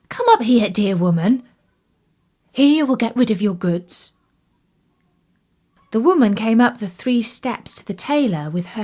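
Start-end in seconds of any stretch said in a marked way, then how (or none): 0.1-4.1 calling out. Acted. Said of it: "and called".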